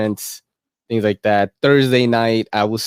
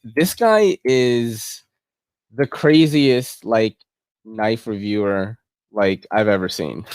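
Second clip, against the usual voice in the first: amazed; slower than usual. Pretend. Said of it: "you're gonna be like".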